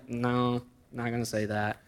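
voicing a two-year-old nephew's giggly no; toddler's refusal. Nephew turning down his uncle, in a soft little-kid voice. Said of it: "He's laughing".

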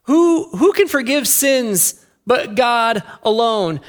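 puzzled "huh", then mildly scandalized objection; sceptical teachers of the law. Acted. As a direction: voice a touch of indignant questioning. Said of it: "teachers of the law were sitting there thinking to themselves".

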